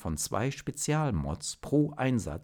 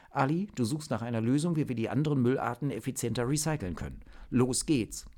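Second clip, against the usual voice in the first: brisk orders, fast and higher; commanding team leader; 4 semitones higher, faster than usual. Acted. Team leader assigning tasks to Zock and Ali, brisk and fast. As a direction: hand out tasks like a leader in a hurry. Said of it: "ihre Anweisung als Teamleiterin".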